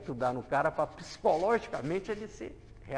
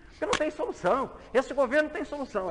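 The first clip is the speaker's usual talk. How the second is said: mãe revoltada; 7 semitones higher, 5 dB louder, faster than usual. Retold or imitated. Mães falam nas entrevistas.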